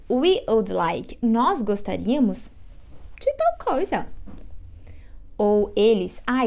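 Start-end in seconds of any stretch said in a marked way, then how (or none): 0.1-1.2 We slowly, stress on "We" in "We would like"; slow model phrase. Shown as a demonstration. Teacher modelling "We would like" for students, slowly. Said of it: "Então, você vai pedir".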